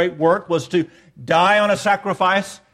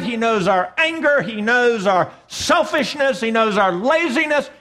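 higher, driving, insistent list; impassioned preaching; 5 semitones higher than usual. Real, not acted. Preacher telling how God knows our sins, impassioned preaching. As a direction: build a forceful litany on each "knows".

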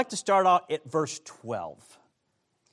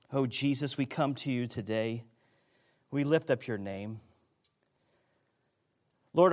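prayer. Acted. Leads a prayer.

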